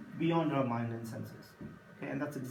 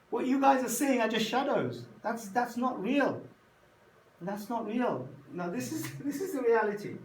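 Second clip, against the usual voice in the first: excited discovery; 2 semitones higher than usual. Acted. Prisoner excitedly telling friends.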